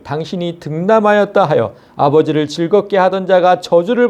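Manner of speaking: measured, solemn Bible reading; scripture reading. Acted. Preacher reads Job's lament to the congregation, solemn.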